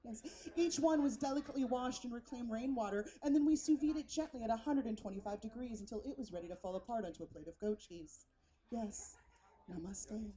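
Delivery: lightly voiced earnest food-culture server; precious hipster waiter. Waiter telling diners about the beet special, lightly precious. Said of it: "some guy named Xander".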